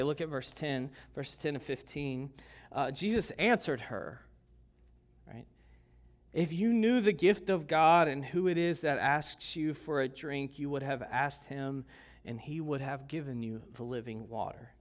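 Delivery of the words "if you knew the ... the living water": scripture reading. Acted. Reading scripture aloud to congregation.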